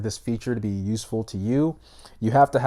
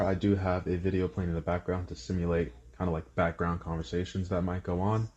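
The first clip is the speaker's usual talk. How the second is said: softer voice through Galaxy Buds microphone; Galaxy Buds mic test; 3 semitones lower, 6 dB quieter than usual. Shown as a demonstration. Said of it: "talking test of the Galaxy Buds Pro".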